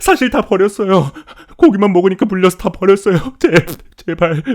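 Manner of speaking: loud, high-pitched frantic plea; panicked confession. Acted. Captive confessing he threw the meat away, panicked screaming. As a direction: blurt it out in terror, begging.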